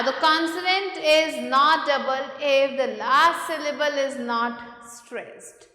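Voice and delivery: slow, deliberate reading of a textbook rule; measured classroom dictation pace; reading rule aloud. Acted. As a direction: read each phrase out slowly for the class. Reads the spelling rule aloud.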